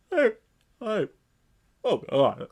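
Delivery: choked, halting mock delivery; exaggeratedly unnatural, stuck-in-the-throat impression; Peter Berg overacting. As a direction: strain each word out between long pauses. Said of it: "you can try to sound at least a little natural. But instead".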